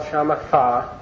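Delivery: "shamatha" with an English th sound at the end; mispronounced with TH. Shown as a demonstration. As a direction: say "shamatha" ending in "tha", as if the H were English. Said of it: "people put an H here and call it".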